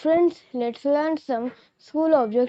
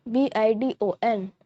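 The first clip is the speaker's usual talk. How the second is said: ordinary talk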